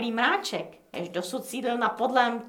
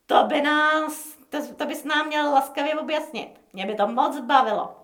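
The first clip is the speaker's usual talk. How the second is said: insolent; 4 semitones higher than usual. Acted. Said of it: "hledět drze".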